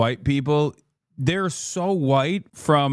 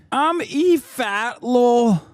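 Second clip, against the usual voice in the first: mock E Fatlo voice; 8 semitones higher, much slower than usual. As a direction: stretch it out big, like a hammed-up announcement. Streamer voicing E Fatlo.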